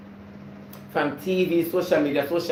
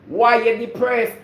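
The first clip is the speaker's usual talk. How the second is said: louder why you depressed; 6 semitones higher, 5 dB louder than usual. Real, not acted.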